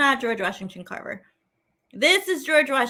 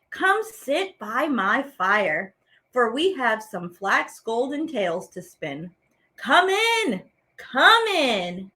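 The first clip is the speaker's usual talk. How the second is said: poem reading; 3 dB louder than usual. Acted. Teacher reads a poem aloud to children, inviting and louder. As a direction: read it like an invitation to dreamers.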